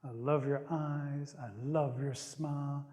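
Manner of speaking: slow, low and soft, lingering on each compliment; gently admiring, drawn out and hushed; tender fondness. Acted. Woman letting Possum down kindly, tender.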